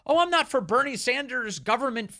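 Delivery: high-pitched mock backtracking; Kamala Harris. Commentator mimicking a candidate disowning positions, mock backtracking. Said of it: "she's attempting to pretend like".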